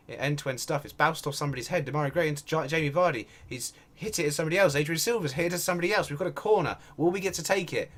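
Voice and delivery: live play-by-play. Real, not acted. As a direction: call the attack as it unfolds, fast and lifted.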